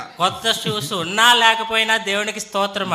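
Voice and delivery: imitated joyful shout. Interpreter retelling the boy's outburst of praise, half-shouted. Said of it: "మరి ఎంతో గట్టిగా అరిచాడు".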